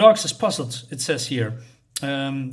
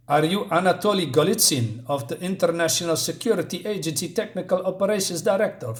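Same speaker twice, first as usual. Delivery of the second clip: fake Russian accent; 4 semitones higher than usual. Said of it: "I'm talking that fake English, uh, Russian, um, esque".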